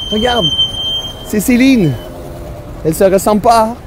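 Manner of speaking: high, bright mock-Parisian put-on voice; hammed-up Quebecer gone Parisian. A Quebec comedian mocking Paris airs, hammed-up. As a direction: play a Quebecer faking Paris chic.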